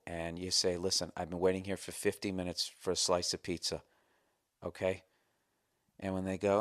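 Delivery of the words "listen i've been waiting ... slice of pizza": low, soft, controlled complaint; keeping cool. Acted. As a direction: state the complaint coolly and quietly. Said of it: "You just have to keep your cool".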